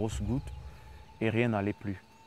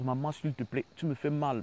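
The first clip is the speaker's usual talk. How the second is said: higher pitched cry of pain to mother; pained plea; 4 semitones higher than usual. Retold or imitated. Son in back pain begs his mother to stop, higher plea. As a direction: plead through the pain, voice rising. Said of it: "je vais me mettre à hurler".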